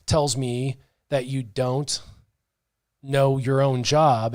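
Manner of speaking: slow, deliberate acted reprimand; measured telling-off with weighty pauses; retold firm confrontation. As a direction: space it out, each phrase landing separately. Retold confrontation with lead recruiter.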